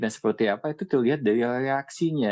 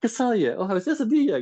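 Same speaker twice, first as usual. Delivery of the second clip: higher, hesitant mock realization; higher, unsure mock voice; self-doubting realization; 10 semitones higher than usual. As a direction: play someone suddenly doubting themselves.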